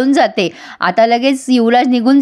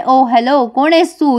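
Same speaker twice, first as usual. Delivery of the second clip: mild mock yell, slightly raised pitch; indignant retold shout. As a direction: challenge a stranger, lightly acted. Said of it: "आता ती ओरडते त्याच्यावर".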